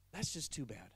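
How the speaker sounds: low, soft and grave as God; God's sad verdict. Retold or imitated. God telling the man his chance is gone, grave and low. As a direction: pronounce it sorrowfully, low and quiet. God voiced in retold parable.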